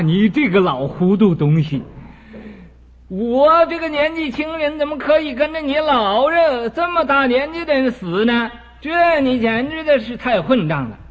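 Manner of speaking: a hammed-up angry rebuke; scolding son. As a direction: tell him off as a rude young son. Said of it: "把他骂了一顿".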